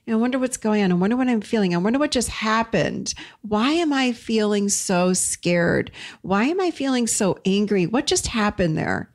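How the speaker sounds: wondering aloud, pitched slightly up; curious. Acted. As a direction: gently puzzle over your own feelings. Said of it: "we get curious and we'll say".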